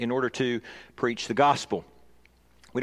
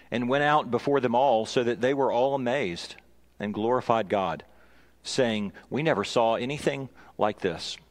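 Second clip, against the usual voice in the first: measured Bible reading, falling phrase ends; understated, unhurried reading from scripture. Real, not acted. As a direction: read the passage aloud to a congregation. Reads scripture aloud to congregation.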